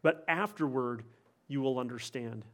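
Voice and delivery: soft, gentle, fading reassurance; calm him gently, letting it fade; Jesus answering Peter, softly and kindly; gracious reply. Retold or imitated. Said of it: "Jesus graciously responds".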